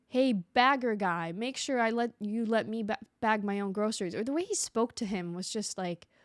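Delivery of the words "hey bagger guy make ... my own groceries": put-on aggressive voice, much too loud. Retelling how a man spoke to a grocery bagger, imitating a loud, aggressive voice. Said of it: "a little too loud and very aggressive".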